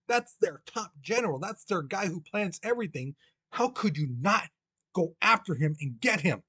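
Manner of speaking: mildly heated, incredulous scolding; retold fury. Lincoln scolding his general for letting Lee go, acted indignation. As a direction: demand an answer in mock anger. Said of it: "He was so furious, angry".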